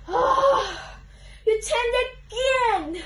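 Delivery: loud drawn-out cry of dismay; exasperated outcry. Acted. Book character seeing the page turned again, exasperated. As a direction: wail it slowly in mock outrage.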